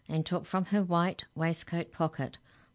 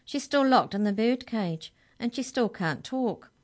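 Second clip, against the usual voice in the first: high, urgent pleading; crying out; 7 semitones higher, 5 dB louder than usual. A narrator's reading. Arthur explaining Mallory's plight, urgent cry. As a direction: plead the case in a raised voice. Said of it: "cried Arthur".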